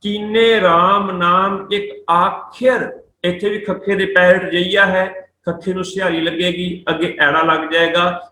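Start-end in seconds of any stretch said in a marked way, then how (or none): 0.0-3.0 slow, measured verse reading; scripture recitation. Shown as a demonstration. Teacher reciting Gurbani to students, slow recitation. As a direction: draw out each word of the line.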